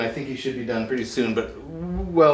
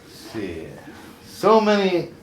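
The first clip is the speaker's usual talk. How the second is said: loud, showy host delivery; talk show host; 3 semitones higher, 7 dB louder than usual. Acted. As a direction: welcome the guest like a TV host. Hosts a TV talk segment.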